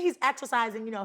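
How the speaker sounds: ordinary talk, nothing marked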